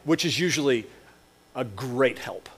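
dry, understated sarcasm; sarcastic. Acted. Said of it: "he says sarcastically".

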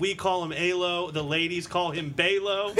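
mock-grand wrestling nickname reveal; ring announcer. Host reveals co-host's silly nickname, ring announcer style. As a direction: build the introduction towards a laugh.

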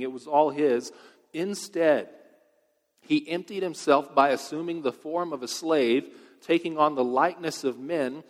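loud, ringing scripture reading from the pulpit; preaching scripture. Acted. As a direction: proclaim the verses to the whole hall. Reads scripture at full force.

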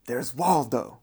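a lightly imitated Jamaican accent, teasing; mimicking the Rasta's Jamaican accent as he cracks a joke. Rasta mocking the red sweatshirt to the whole cell, light Jamaican accent. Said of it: "in a thick Jamaican accent".

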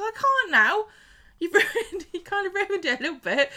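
high, loud wail breaking into laughter; hammed-up distraught whine, half laughing; mock upset. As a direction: wail it like a spoilt refusal, laughing. Acted upset Gemma, hammed up.

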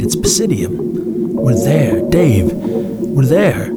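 excited cry. Acted. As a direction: point and shout the news. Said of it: "he cried".

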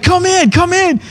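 a lightly voiced regal welcome; throne man's welcome. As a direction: call him in like a kindly king. Man on throne greets dreamer.

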